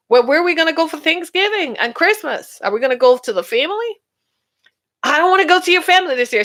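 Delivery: acted quarrel. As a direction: play the annoyed partner pushing back. Acted couple arguing about holidays.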